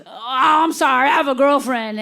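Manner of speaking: lightly voiced hillbilly letting someone down; a hint of country-man apology; hillbilly fairy. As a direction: imitate a backwoods fellow declining. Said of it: "this hillbilly fairy shows up".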